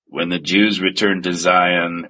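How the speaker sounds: low, solemn mock prophecy; reciting priest. Priest reciting prophecy with no introduction, low mock solemnity. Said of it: "looks up and says".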